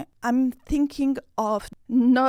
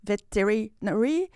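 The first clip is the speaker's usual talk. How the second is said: veterinary tried as vet-terry-NARY, rising; alternative emphasis. Shown as a demonstration. Learner asking where emphasis goes, second try at veterinary. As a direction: test veterinary with a questioning lift at the end. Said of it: "Where do you put the emphasis".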